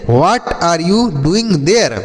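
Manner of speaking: very slow, word by word; slow model sentence. Shown as a demonstration. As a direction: spell the sentence out slowly for pupils. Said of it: "बोलेंगे अंग्रेजी में". (धीरे-धीरे, हर शब्द अलग करके)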